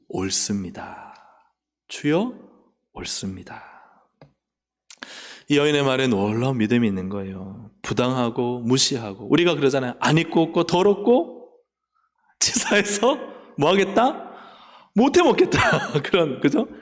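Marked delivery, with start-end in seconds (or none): 0.1-3.7 slow, much softer and lower; bow your head as you say it; humble acceptance. Acted. Woman's humble acceptance voiced. 12.4-15.6 much higher, petulant whine; mock sulky grumble. Acted grumble of offended believer.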